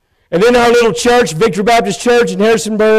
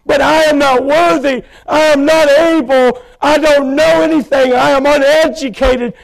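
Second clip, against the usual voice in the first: higher pleading prayer with sudden shouted words; retold tearful prayer; 4 semitones higher than usual. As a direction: cry out to God, unworthy and broken. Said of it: "I wept and I cried".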